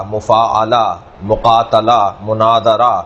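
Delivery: مفاعلہ، مقاتلہ، مناظرہ with an open "a" before the last syllable; model word pattern. Shown as a demonstration. Teacher listing rhyming forms, model pronunciation of مفاعلہ، مقاتلہ، مناظرہ with short "a". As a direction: recite مفاعلہ، مقاتلہ، مناظرہ as separate model words, mu-faa-a-la style. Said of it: "اس وزن کے اوپر".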